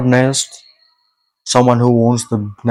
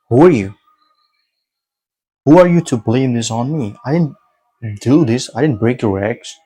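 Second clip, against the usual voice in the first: indignant protest. Retold or imitated. Dreamer protesting to the egg owner who blames him, indignant. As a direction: push back at a false accusation, retold.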